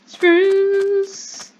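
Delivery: high, loud exclamation out of nowhere; sudden shout. Real, not acted. Sudden outburst while playing Minecraft.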